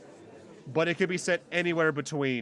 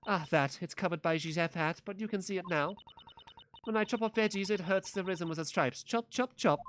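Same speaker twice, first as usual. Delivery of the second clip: put-on Italian accent; 2 semitones higher than usual. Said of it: "do I have to do an Italian accent".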